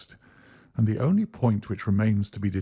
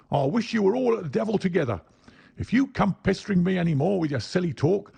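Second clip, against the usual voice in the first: high, fast furious rant; angry; 10 semitones higher, faster than usual. Acted. Salesman ranting at the pestering inquirer, furious. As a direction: drive him off with fury.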